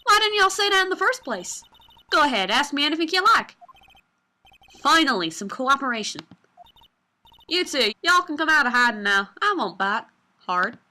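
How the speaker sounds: put-on Southern accent. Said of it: "Southern folks talk with that exaggerated drawl".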